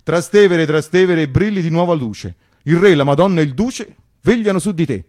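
mock patriotic verse; mock solemn recital. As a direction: read it like an official fascist plaque. Reciting a fascist plaque.

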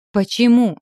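громкий крик, высоко вверх; выкрикнуть вопрос в отчаянии. Acted. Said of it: "крикнула". (громкий отчаянный крик)

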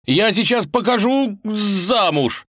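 высокий громкий возмущённый крик, медленно; грозит, срываясь на крик; возмущённо голосит. Acted. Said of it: "голосил Иван".

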